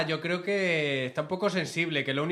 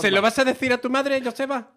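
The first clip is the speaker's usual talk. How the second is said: mocking tease; 6 semitones higher, 5 dB louder than usual. Teasing Joseba like a child.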